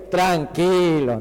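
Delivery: slow, stretched-out soothing word; mock-calm, very slow; calming catchphrase. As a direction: draw each syllable out to calm a teammate. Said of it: "siempre le digo".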